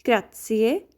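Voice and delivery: "Grazie" with rolled r and ts, GRAH-tsee-eh; Italian grazie. Shown as a demonstration. Teacher teaching thanks to learners, careful model. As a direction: model "Grazie" slowly in three syllables. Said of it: "Next one is grazie".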